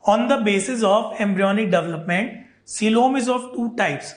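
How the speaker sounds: very slow, every word spaced out; slow right down and spell it out for them; speaking slowly. Shown as a demonstration. Teacher promising the class to speak slowly, very slow. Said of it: "धीरे धीरे बोलूंगा".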